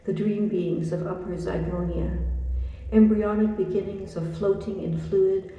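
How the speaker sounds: measured poetry reading with little pitch movement; poem reading. Acted. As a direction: read each short line as verse, evenly and deliberately. Reads a second poem.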